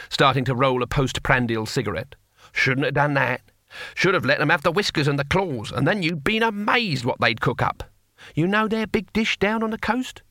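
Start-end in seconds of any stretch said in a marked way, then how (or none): 2.5-10.2 lightly voiced old barbarian relishing his tale; a hint of a wry old warrior, rising in pitch; Cohen.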